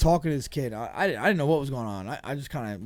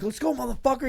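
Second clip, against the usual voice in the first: retold challenge; 11 semitones higher than usual. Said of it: "I'm like".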